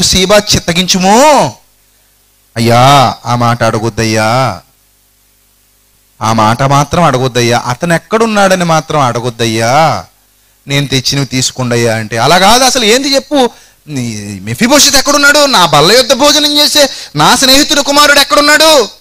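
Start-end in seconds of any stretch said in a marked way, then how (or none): 2.6-12.0 sly servant. Acted. Preacher voicing the sly servant Ziba to King David, low and wheedling. 12.2-18.9 higher, pressing king's question; insistent king. Acted. Preacher voicing King David pressing Ziba, higher and insistent. King demands answer from servant.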